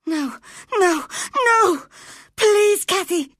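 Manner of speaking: high, loud, desperate screaming; terrified boy screaming for Cathy to stay; wild scream. A narrator's reading. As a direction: scream as if your life depends on it. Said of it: "screamed Linton wildly".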